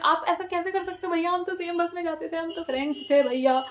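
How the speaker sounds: put-on retelling a tearful child's protest; teary pleading. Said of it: "And started crying again".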